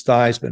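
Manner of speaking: "Theismann" said THIGHS-man, rhyming with Heisman; Thighs-man pronunciation. Retold or imitated. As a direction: say "Theismann" slowly with the vowel of "eye". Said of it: "to rhyme with Heisman".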